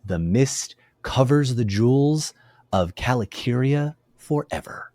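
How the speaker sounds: slow, soft, solemn verse reading; poem recitation. A narrator's reading. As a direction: recite the lament gently, letting each line settle. Recites translated lament.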